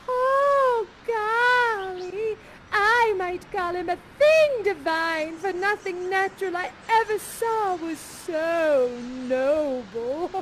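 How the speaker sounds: put-on slow, dreamy girlish awe; smitten Miranda. Miranda first seeing Ferdinand, dreamy and smitten. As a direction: sigh it out, lovestruck. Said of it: "And then you say".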